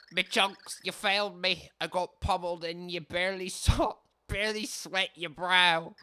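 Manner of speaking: voiced warrior. Voicing Chunks the warrior.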